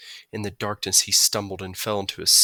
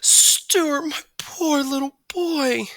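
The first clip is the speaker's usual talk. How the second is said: fretting mother; 4 dB louder, much slower than usual. A narrator's reading. Mother finding frozen son.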